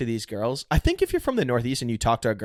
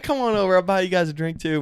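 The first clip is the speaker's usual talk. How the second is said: Southern gentleman; 7 semitones higher, faster than usual. Retold or imitated. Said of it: "a Southern gentleman".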